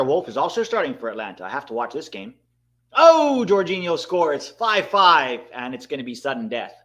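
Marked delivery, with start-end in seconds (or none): 2.9-5.4 a very high loud oh into the score; excited goal call. Real, not acted. Streamer calling the equalising penalty, excited. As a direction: shout the equaliser.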